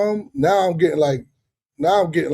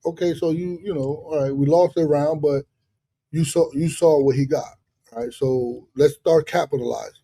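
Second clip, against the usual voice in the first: calm coaching. Retold or imitated. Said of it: "I was calm".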